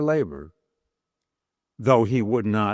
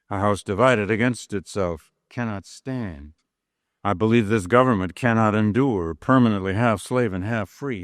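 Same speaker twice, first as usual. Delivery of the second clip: formal oratory reading; 2 semitones lower than usual. Acted. Lecturer reading Lincoln's speech to class, measured oratory. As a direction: read it as Lincoln addressing a convention. Reads the House Divided speech.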